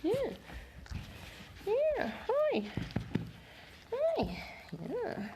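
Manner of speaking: very high soft cooing. Real, not acted. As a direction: coo up high at the dog. Cooing at the dog.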